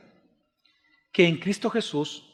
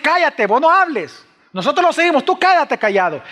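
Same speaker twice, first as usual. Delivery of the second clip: angry hushing; 10 semitones higher, 8 dB louder than usual. Acted. Crowd silencing the beggar.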